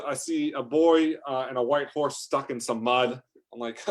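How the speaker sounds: ordinary delivery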